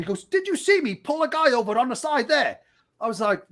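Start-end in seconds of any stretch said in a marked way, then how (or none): 0.2-2.6 high-pitched indignant questioning; angry officer. Retold or imitated. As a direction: act out an officer's angry scolding. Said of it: "he was really angry".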